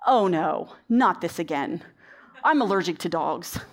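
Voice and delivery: mock-defeated child, low and weary; lightly imitated sigh of defeat. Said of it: "he's all defeated".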